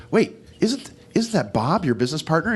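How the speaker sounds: a hint of a surprised wife; wife's voice. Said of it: "the wife looks over and says".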